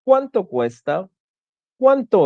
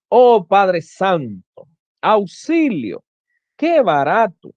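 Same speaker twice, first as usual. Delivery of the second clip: exclamation; 2 semitones higher, slower than usual. Shown as a demonstration. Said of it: "Destacan diferentes estados de ánimo".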